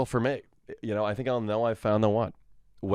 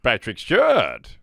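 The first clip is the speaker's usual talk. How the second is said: slow, louder grand name; Patrick Stewart; 6 dB louder, slower than usual. Retold or imitated. Answering boxers or briefs as Patrick Stewart, slow grand. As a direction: draw the name out like a stage actor. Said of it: "how to do a Patrick Stewart impression".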